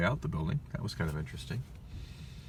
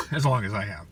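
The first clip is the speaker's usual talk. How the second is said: choking; 6 dB louder than usual. Real, not acted. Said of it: "taquito in my voice box".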